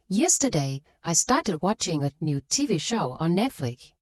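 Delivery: "I", "a" and "on" kept light in "yesterday I started watching a new T V show on Netflix"; stressed content words. Shown as a demonstration. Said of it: "are not pronounced as clearly".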